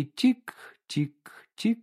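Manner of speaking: slow whispered ticking. A narrator's reading. Narrator evokes the ticking clock in the silent hut, whispered. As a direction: whisper the clock's tick-tick-tick like a secret.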